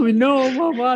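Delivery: tender, high, slow, loving pleading voice.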